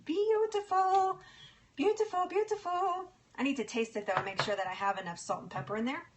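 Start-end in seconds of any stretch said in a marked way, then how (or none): 0.0-3.1 playful sing-song voice, much higher on beautiful. Real, not acted. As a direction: croon the word beautiful up high. Praising the soup.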